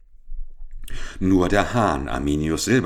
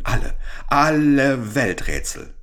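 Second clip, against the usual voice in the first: höher und lauter hinausgerufen; schreiend; 7 semitones higher, 3 dB louder than usual. A narrator's reading. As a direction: ruft seine Welträtsel laut in die Nacht. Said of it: "schrie er". (Hahn schreit im Stall seine Vorsätze hinaus)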